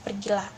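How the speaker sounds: "Pergilah" on a level, fairly low note; flat intonation. Shown as a demonstration. Teacher gives an example of flat intonation, level delivery. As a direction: say "Pergilah" evenly, with no emphasis. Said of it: "intonasi datar".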